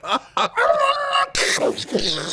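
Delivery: high drawn-out imitated outburst; imitated noise. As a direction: make a long, very high noise to act out the moment. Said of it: "And then it was like".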